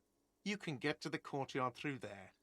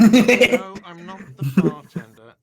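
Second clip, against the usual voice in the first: indignant shout; 3 semitones higher, 26 dB louder than usual. Acted. NPC indignant at being called bartender.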